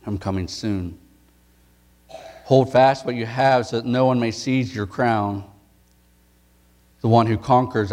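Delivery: measured, solemn reading of scripture; solemn Bible reading voice. Acted. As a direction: read the passage with weight and reverence. Reads scripture aloud.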